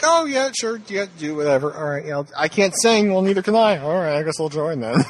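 high, breezy mock voice of a shrugging joiner; mock careless joiner. Mocking fic characters joining the choir, light high voice. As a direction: toss it off like you'll do whatever. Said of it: "It's like everyone's like".

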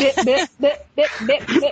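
choppy robotic bit bit. Pretend. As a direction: mimic a glitching robot. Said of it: "you sound like a robot".

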